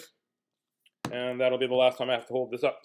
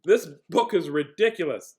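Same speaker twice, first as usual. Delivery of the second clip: exasperated; 4 dB louder than usual. Acted. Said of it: "Contrary to what I just said".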